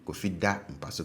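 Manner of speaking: DA high in "Kofi da mpa so"; habitual high tone. Shown as a demonstration. Teacher repeats the sleeps example, DA high. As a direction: set DA above the words after it. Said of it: "that syllable tends to be high".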